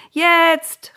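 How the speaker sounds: high, loud, impatient cry; eager shout. Acted. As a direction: burst out like kids who can't wait. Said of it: "riefen Noahs Söhne".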